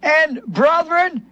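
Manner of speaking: slow, pleading cry of the crowd; drawn-out anguished plea. Retold or imitated. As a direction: drag out the plea like a desperate crowd. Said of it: "they cried out and said".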